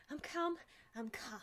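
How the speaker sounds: soft, breath-held self-soothing; hushed attempt at composure; forced calm. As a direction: talk yourself down under your breath. Goblin forcing himself to be calm.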